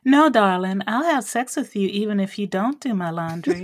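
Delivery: a lightly put-on sweet Southern accent. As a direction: Texas girlfriend teasing her man in a Southern accent. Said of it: "I can actually do a really good Southern accent".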